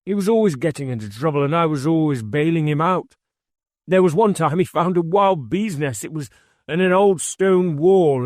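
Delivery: lightly played old man smiling at a memory; warmly recalling a little brother; fond reminiscence. A narrator's reading. Thurgood tells the bee story.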